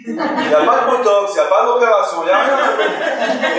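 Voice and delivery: chuckling through the list; amused laugh on the words. Real, not acted. Rabbi joking to the class about botox, chuckling.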